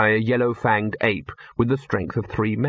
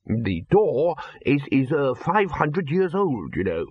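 slow, gently reproachful, trailing off; a polite hint of blame; finely tuned reproach; 3 semitones higher, slower than usual. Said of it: "with finely tuned reproach".

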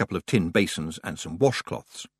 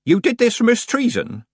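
higher, louder questioning witch; inquisitive old witch; 5 dB louder than usual. A narrator's reading. Nanny asks Tiffany as they step out, inquisitive. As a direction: voice Nanny asking, pitched up.

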